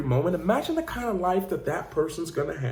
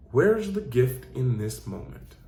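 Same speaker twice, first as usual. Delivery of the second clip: slow, thoughtful question; reflective question; 3 semitones lower, slower than usual. Shown as a demonstration. Coach offering listeners a better question, slow and reflective. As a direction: pose it gently to yourself. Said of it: "this is the one I ask".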